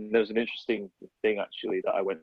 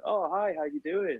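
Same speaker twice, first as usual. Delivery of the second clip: put-on New York accent, high and slow; drawn-out, high-pitched mock New York accent; Paula Scher; 8 semitones higher than usual. Designer greets a fan at the traffic lights, put-on New York accent. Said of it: "That accent is amazing".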